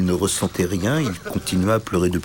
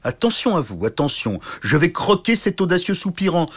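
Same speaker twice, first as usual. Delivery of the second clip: menace de géant; 9 semitones higher than usual. Acted.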